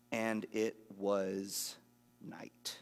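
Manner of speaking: slow, then night breathed out almost silent; dramatic whispered night; hushed ending. Acted. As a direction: let the word night fall into a hush. Dramatic scripture reading, dark turn.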